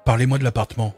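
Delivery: put-on young man voice.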